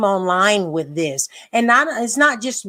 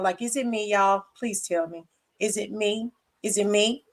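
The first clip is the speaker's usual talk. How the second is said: quiet plea; 2 semitones lower, 7 dB quieter than usual. Real, not acted. Pleading to viewers.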